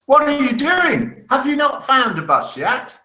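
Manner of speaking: lookout shouting. Acted. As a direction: call out to your mate across the depot. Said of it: "the lookout shouts".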